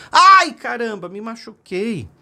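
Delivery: put-on a child yelping after a fall; hurt little boy's cry, high then fading. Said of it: "seu filhinho caiu e gritou".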